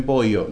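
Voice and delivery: "pollo" said as "poio", with an i glide for ll; imitated mispronunciation. Mocking how they copy us, "pollo" turned into "poi-yo". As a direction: mimic outsiders saying "pollo" as "poi-yo". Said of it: "Pues dicen pollo".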